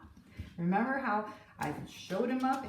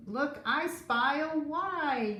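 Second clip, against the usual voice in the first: yelled; 5 semitones higher, slower than usual. Acted. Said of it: "yelled a shipmate".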